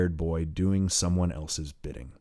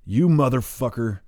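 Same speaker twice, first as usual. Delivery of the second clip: higher, louder furious shout; 4 semitones higher, 6 dB louder than usual. Acted. Hayduk shouting down at the boy from the boardwalk, furious. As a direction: yell down at him in rage. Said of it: "shouts Hayduk from above".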